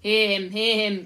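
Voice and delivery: booming "hear, hear" from a crowd; very loud, hearty cheer of support; chorus of agreement. A narrator's reading. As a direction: shout it like a whole gang agreeing. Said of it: "came the chorus".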